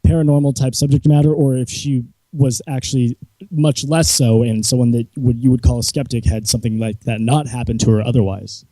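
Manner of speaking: muffled, like a hand over the mouth; words dulled as if covered. Real, not acted. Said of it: "you're very muffled for us".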